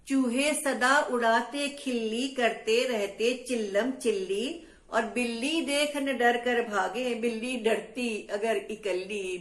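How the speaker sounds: rhythmic sing-song rhyme reading; playful poem recital. Acted. Teacher reciting a cat rhyme to children, playful. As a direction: chant the silly rhymes for kids.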